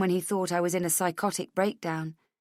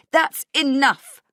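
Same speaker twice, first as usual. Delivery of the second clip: loud, high, drawn-out yell; furious raised voice; 8 semitones higher, 9 dB louder, slower than usual. Acted. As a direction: shout it down, every word forceful. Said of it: "I yell".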